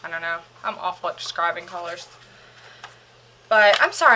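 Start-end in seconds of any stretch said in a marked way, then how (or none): 3.5-4.1 winded from hurrying; breathless, rushing to talk; out of breath. Real, not acted. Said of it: "I'm out of breath".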